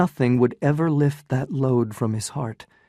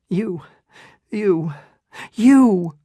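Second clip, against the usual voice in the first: building accusation; 8 semitones higher, 6 dB louder, much slower than usual. Acted.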